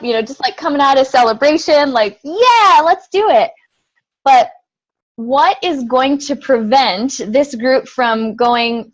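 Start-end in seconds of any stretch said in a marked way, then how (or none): 2.2-3.5 higher-pitched mock rallying cry; hyped up. Coach voicing the team coming out of celebration, hyped up. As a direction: imitate a team all pumped up. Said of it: "we can get all hyped up".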